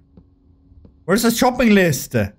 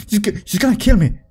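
panicked yell. Real, not acted. Panicking at chasing shopkeeper.

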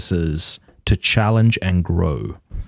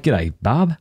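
Australian greeting, "Bob" for Barb; Australian accent; 3 semitones higher than usual. Retold or imitated. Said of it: "when I say that word".

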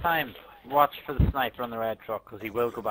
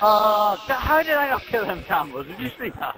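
disbelief; 10 semitones higher, 7 dB louder than usual. Real, not acted. Missed kill, disbelief.

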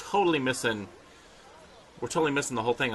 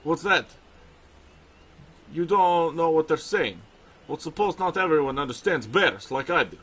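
put-on Russian accent. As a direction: voice the bear trainer with a Russian accent. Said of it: "I'm gonna give him a Russian accent".

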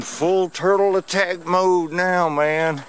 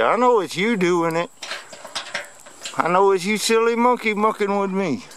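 voicing the turtle; 6 semitones higher than usual. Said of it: "He said".

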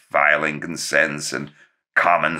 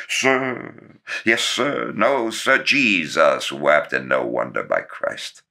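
Walter sirring. Retold or imitated. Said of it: "sirring his father".

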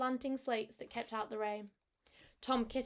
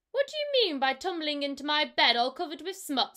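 louder cross rat voice; indignant rat, teeth chattering; 3 semitones higher, 7 dB louder than usual. Acted. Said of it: "said the rat, chattering his teeth".

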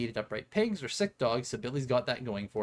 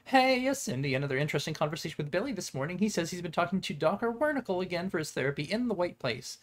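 panicking voice. Pretend. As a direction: read it like you're panicking. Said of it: "read this piece of paper now in my panicking voice".

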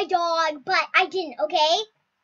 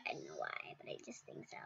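much softer, fading to a whisper; trailing off; 18 dB quieter, faster than usual. Real, not acted. Kid trailing off while guessing who survived. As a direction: let it die away.

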